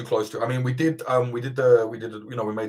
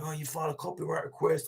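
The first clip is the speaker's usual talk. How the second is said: mocking whiny voice; 7 semitones higher, 9 dB quieter than usual. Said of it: "an anarchist channel, like".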